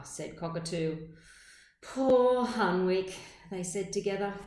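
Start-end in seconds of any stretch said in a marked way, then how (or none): 1.8-3.1 louder, slow, drawn-out pity. Acted. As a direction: sigh it out slowly for poor Hunwig. Neighbours pity Hunwig together.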